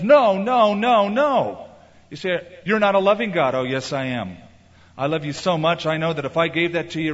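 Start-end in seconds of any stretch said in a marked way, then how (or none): 0.0-1.7 loud, higher and firm no said again and again; firm refusal. Retold or imitated. God refusing the begging believer, in a loud firm no. 2.6-3.5 sulky accusation. Retold or imitated. Believer's retort to God.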